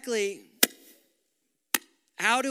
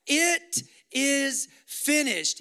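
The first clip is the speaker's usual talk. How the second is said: cried out; 4 semitones higher, 5 dB louder, much slower than usual. Acted. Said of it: "he cried out".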